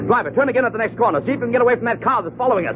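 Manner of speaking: high, fast, anxious orders to the driver; urgent, high pleading. Acted. Chased by gunmen, he begs the driver to lose them, high and urgent. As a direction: push the cabbie to shake the tail.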